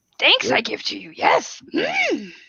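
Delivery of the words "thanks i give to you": adorable, high-pitched little voice. Doing a voice that another speaker calls adorable: female Yoda voice. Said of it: "most adorable impression I've ever heard".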